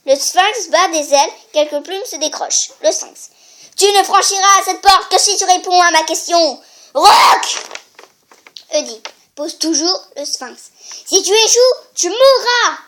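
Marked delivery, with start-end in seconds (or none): 3.8-7.6 sphinx threat. Acted. Sphinx speaking. 11.1-12.8 sphinx threat. Acted.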